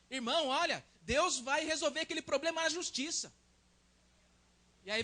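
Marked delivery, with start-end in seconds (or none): 0.1-3.3 encouraging brother. Retold or imitated. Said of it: "alguém fala pra nós".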